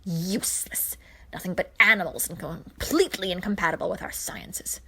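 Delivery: put-on a raspy, contemptuous old witch, half-whispered; scornful old witch. Witch Hagar scoffing at Zarkon's suggestion, contemptuous. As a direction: sneer it like a proud sorceress.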